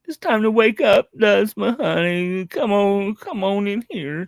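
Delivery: loud, sing-song wake-up call; calling a child to wake up. Pretend. Second wake-up take, louder.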